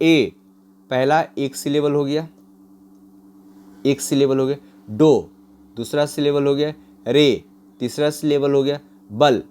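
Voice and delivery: ए, डो, रे, बल each set apart and counted; counting syllables. Shown as a demonstration. Teacher counting syllables of adorable aloud for class. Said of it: "there are four syllable".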